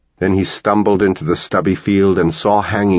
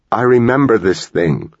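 hissed; 5 semitones higher than usual. A narrator's reading. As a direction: spit it out at her son. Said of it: "she hissed".

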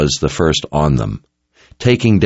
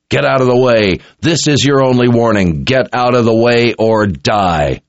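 raised, forceful command; yelled warning; 5 semitones higher than usual. A narrator's reading. Richard warns the crowd blocking his attack, yelling. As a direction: warn them off, voice pitched up.

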